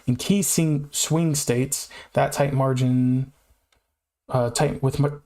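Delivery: stumbling over key phrase; halting, restarting words; stuttering. Real, not acted. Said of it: "like, stuttering".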